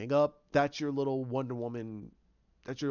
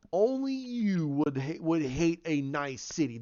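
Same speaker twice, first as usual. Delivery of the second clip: mock incredulous retort; 2 semitones higher, slower than usual. Acted scornful retort in argument.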